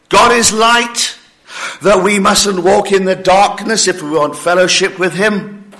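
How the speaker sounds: imagined listener doubting the verse; mock unimpressed question. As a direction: play a listener who shrugs it off. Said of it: "you may be thinking".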